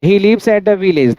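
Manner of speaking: he lives at a village read slowly, word by word; slow dictation. Shown as a demonstration. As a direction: spell the example out for the class. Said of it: "जैसे".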